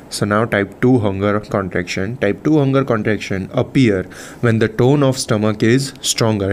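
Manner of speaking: slow, measured reading of notes; slow textbook read-out. Real, not acted. Teacher reading physiology notes to students, slow and measured. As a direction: read it out slowly, phrase by phrase. Reads lesson text aloud slowly.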